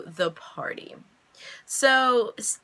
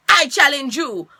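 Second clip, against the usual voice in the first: loud, high, slow put-on Hispanic accent; dramatic challenge in an uncertain Hispanic accent; mock Hispanic accent; 7 semitones higher, 9 dB louder than usual. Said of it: "I don't know what accent that was".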